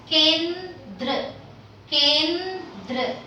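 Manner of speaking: "kendra" split as ken-dra; demonstrated pronunciation. Shown as a demonstration. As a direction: model "kendra" with a held n before dra. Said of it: "I'm saying it as".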